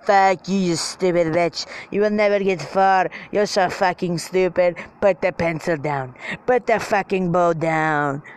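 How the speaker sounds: lightly voiced French-accented bully; mock yelling in a French accent; French little man. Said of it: "as a French little man".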